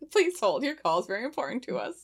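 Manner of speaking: like a polite recorded hold line; sweet recorded hold message. Pretend. Mock phone hold after scream.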